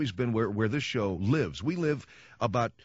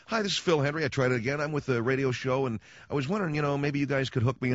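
mock schmoozing caller; 3 semitones higher than usual. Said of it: "So I call him up and go".

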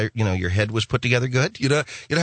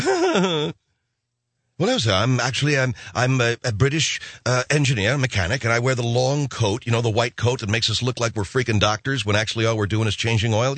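mild British mechanic voice; lightly played English accent, explaining; 2 semitones lower than usual. The speaker explains he is a British mechanic, mild English accent. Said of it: "guy with the English accent".

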